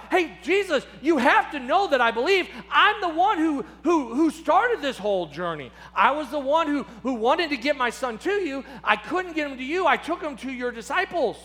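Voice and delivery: a father insisting to Jesus that he believes; father crying out. Retold or imitated. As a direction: plead your case eagerly. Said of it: "And the Father cries out".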